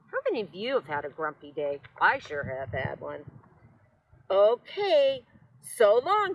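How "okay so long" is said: high, loud, cheery goodbye; cheerful. A narrator's reading. Rosie leaving the cactus, cheerfully bright. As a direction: sing out a happy farewell. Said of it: "said Rosie cheerfully".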